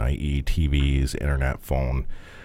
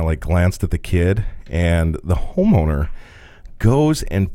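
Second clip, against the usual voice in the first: normal talking voice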